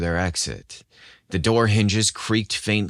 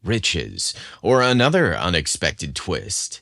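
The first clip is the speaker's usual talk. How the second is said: dramatic teaser narration. A narrator's reading. Host teasing listeners with the episode's dramatic hook. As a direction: tease the adventure ahead.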